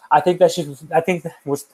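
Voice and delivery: stumbling over his words; halting, repeating the start; stuttering. Real, not acted. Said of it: "I don't know why I'm stuttering".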